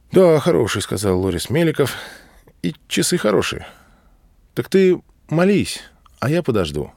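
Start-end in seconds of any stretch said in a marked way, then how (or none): 0.1-0.8 pitched higher and a bit louder, lightly voiced officer; Loris-Melikov's voice. A narrator's reading. Loris-Melikov agrees with Hadji Murat, in a higher voice. 2.6-6.9 high, lightly voiced officer, settling down at the end; a raised, friendly officer's voice; Loris-Melikov's voice. A narrator's reading. Loris-Melikov tells Hadji Murat to go and pray, in a higher voice.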